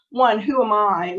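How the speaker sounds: ordinary delivery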